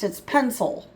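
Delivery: quick pencil with a schwa; "pencil" run together as pensl; fast pencil. Shown as a demonstration. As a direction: say "pencil" fast, as pen-suhl. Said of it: "when we say it fast".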